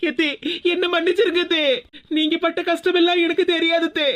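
apologising through tears to her mother-in-law; a crying plea for forgiveness; tearful apology. Acted. Daughter-in-law begging forgiveness from her mother-in-law, tearful. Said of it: "ஏன் இப்படி அழுதுகிட்டு இருக்கா?".

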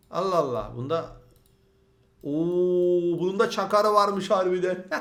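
loud, laughing oh at the find; laughing discovery. Real, not acted. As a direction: chuckle as you discover it. Finds siren on truck.

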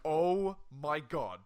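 slow, loud, stunned oh my god; retold excited gasp; freaking out. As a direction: draw it out in disbelief. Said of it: "I freak out again".

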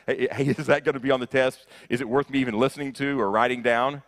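a student cutting in, laughing, to ask if it counts; mock eager student. Preacher mocks a student asking if it's on the test, fast and laughing. Mocking the student who asks.

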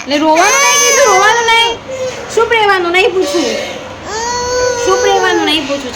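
put-on high, fast, fussing baby talk; soothing a crying baby. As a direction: coo fast and high to calm a whimpering baby.

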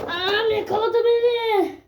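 crying out as he's grabbed; panicked cry. Real, not acted. To the viewers as he's caught, a panicked cry. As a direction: yelp of alarm, voice up high.

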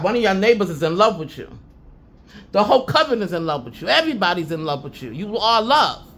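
ordinary talk

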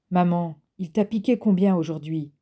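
mildly acid question; a touch of bitter sarcasm toward mom. Acted. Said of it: "demanda James d'un ton acide".

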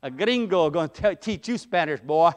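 mock gloating with a laugh; playful gloat, laughing at a friend. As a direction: tease him like a smug gringo. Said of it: "I kinda gloated a little bit".

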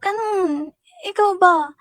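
mocking boss. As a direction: mimic the boss brushing her off with a sneer. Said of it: "tinawanan niya ako". (ginagaya ang nang-uuyam na amo)

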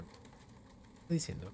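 breathy hushed aside, slow; whisper. Pretend. Streamer whispering back at a chat comment, slow.

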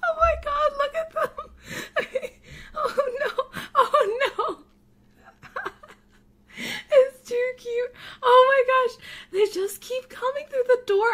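overwhelmed by cuteness, squeal; real gushing delight; ecstatic squeal. Real, not acted. Pugs pour through dog door.

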